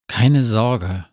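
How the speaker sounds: plain reading voice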